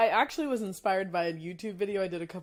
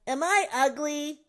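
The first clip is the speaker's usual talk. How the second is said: slow, higher pleading cartoon voice; SpongeBob impression; 7 semitones higher, slower than usual. Host does SpongeBob's bad-breath line, pleading. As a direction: ask it plaintively and slow. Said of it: "I can do the ugly".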